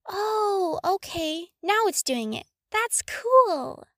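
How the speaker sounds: put-on rising, delighted girl voice; a young girl's sudden delight; pleased surprise. Hermione to Harry, delighted the staff works.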